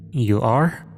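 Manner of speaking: mildly puzzled question; understated confusion; utter confusion. A narrator's reading. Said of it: "I asked in utter confusion".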